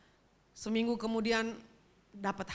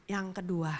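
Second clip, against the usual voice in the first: ordinary talk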